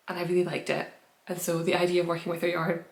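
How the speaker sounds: talking through hiccups; words broken by hiccups. Real, not acted. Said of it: "sorry, I've got the hiccups".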